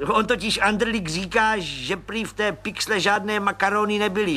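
a high, eager little man's voice; high chirpy little agent; Pištora voice. Acted. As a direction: pipe it up like a cheerful small policeman. Pištora reports.

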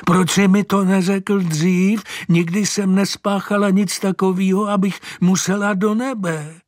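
put-on high, astonished old lady; old woman marvels at the horse, high and amazed; old woman's voice. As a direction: pitch up into a fussy old woman's voice. Mrs Herncová voiced by reader.

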